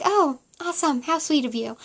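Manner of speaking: sarcastic sweetness; fake-sweet, dripping sarcasm. Retold reply to epidural warning.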